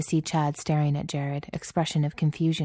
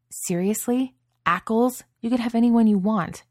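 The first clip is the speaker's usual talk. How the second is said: higher pitched disbelief, building louder; can't believe what he's hearing; incredulous; 7 semitones higher, 4 dB louder than usual. Acted. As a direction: Chad questioning Jared's boyfriend choice, incredulous. Chad disbelieves Jared's choice.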